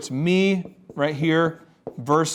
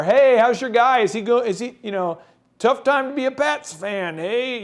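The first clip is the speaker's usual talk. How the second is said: higher-pitched ribbing fan voice; mock heckling; 6 semitones higher than usual. Strangers ribbing a Pats fan, mock heckling. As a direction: imitate a stranger needling him.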